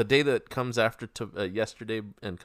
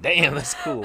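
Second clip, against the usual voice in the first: laughing; 10 semitones higher, 8 dB louder, slower than usual. Retold or imitated. Quoting self to the Queen.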